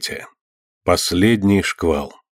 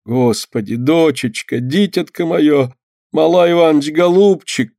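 moaning; 6 semitones higher, slower than usual. A narrator's reading. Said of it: "простонала Лина".

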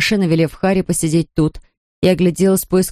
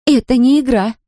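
fierce, higher and louder, stress on не; angry; 7 semitones higher, 4 dB louder than usual. A narrator's reading. Zoya scolds the fighting children, angry. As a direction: snap it out in sudden fury. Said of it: "Страх Зои превратился в ярость".

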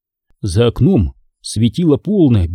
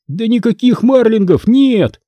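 understated shout, pitched up and drawn out; mild cry; 9 semitones higher than usual. A narrator's reading. Boy correcting Hanna about the empty house, mildly crying out. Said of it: "закричал я".

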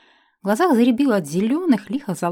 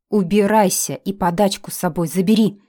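angry; 6 dB louder than usual. Acted. Heroine throwing the elf out.

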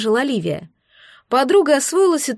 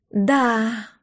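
dreamy. A narrator's reading. Friend thinks of morning training, dreamy. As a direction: say it as if lost in a pleasant thought. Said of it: "мечтательно улыбнулась она".

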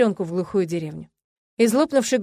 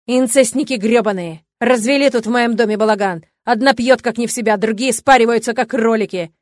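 furious screaming insults; 2 semitones higher, 8 dB louder than usual. A narrator's reading.

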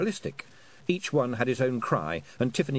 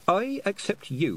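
formal declaration; high formal announcement; 10 semitones higher, slower than usual. A narrator's reading. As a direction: proclaim it slowly. Tiffany announces.

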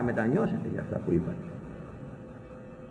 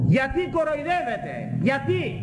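much higher, slow, accusing preacher's challenge; indignant rebuke; 13 semitones higher than usual. Retold or imitated. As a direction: hammer the question home from way up high. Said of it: "Τους είπα".

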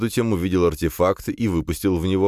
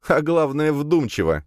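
chuckling; 10 semitones higher than usual. A narrator's reading. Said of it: "хохотнула Надя".

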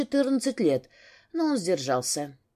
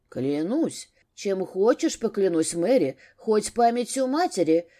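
искренне заверяя. Acted. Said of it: "искренне заверил Витольд".

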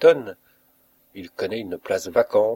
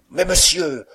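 high, raised-voice objection; alarmed protest; 8 semitones higher, 6 dB louder than usual. A narrator's reading. Sacked servant protesting to the master, high alarmed plea. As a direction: cut in with a high, loud plea.

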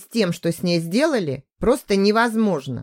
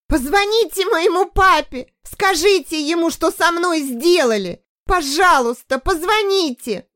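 shrieking; 9 semitones higher than usual. A narrator's reading. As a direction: beg in panic. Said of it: "Снова завизжала".

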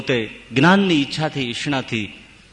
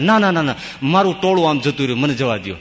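pleading; faster than usual. Acted. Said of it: "કરગરે છે".

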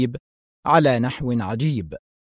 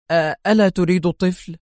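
higher, hesitant question; puzzled; 5 semitones higher than usual. A narrator's reading. Principal questions Zelman's refusal, puzzled. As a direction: ask it in confusion. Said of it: "سألته حائرة".

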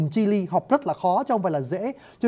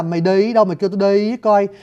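put-on southern Khmer-tinged accent. Teacher imitating a southern speaker with Khmer-flavoured vowels. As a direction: voice a southern Vietnamese speaker with Khmer-rooted sounds. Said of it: "âm hoàn toàn chỉ tiếng Miên mới có".

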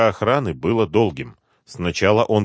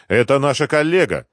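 higher-pitched protest in defence; заступаются; 7 semitones higher, 4 dB louder than usual. A narrator's reading. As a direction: speak up for a colleague, pitched up. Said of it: "вступились за Риму". (горячо заступаясь, повышенным тоном)

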